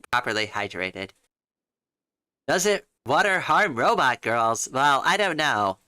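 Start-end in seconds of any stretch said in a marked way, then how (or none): 2.5-5.8 a lightly voiced robot girl; questioning in a put-on robot voice. Robot girl reading chat.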